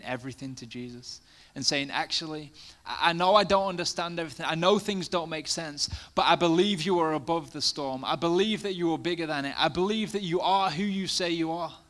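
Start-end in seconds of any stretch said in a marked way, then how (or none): 1.9-11.8 louder, earnest declaration of faith; fervent prayer. Pretend. Believer praying to Jesus amid the storm, fervent. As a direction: proclaim it like a vow.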